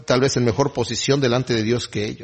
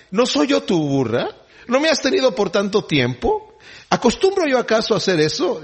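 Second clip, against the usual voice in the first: higher, plaintive donkey asking why; a wounded, higher-pitched donkey complains to its master; pleading donkey voice; 9 semitones higher than usual. Acted. Donkey reproaches Balaam.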